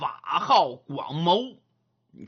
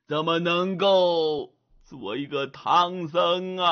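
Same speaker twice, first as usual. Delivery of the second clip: put-on lamenting old monk. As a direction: sigh over the robe you can't keep.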